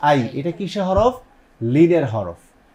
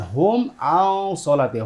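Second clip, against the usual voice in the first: slow recitation demo; 2 semitones higher, slower than usual. Shown as a demonstration. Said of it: "মিম সাকিন ইজহার".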